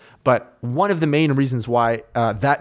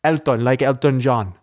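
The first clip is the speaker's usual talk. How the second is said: lightly imitated accent, rounded "Elton"; Elton's accent. Host imitates the venue's tech guy, light foreign accent. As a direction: copy the tech guy's accent, full "o" in Elton. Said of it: "exactly to a T his accent".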